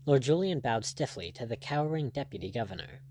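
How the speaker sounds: plain reading voice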